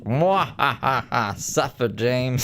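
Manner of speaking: slow mock-evil gloat; sneering panto villain. Taunting a friend stung by ants.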